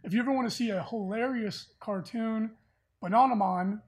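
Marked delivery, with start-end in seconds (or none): 3.0-3.8 lightly attempted British pronunciation; British accent. Host naming an old British cartoon, in a half-hearted British accent. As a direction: slip into a British "ah" on Bananaman. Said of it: "supposed to be, like, a British accent".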